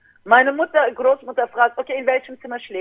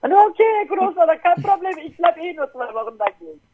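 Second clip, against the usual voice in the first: breezy reply; 10 semitones higher than usual. Retold or imitated. Cheerful reply to grandfather.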